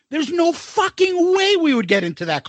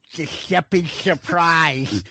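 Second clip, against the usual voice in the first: slow, lower slurred mock voice; mock slurred reply; 6 semitones lower, much slower than usual. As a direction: drag it out, imitating the slur. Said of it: "And his slurring?".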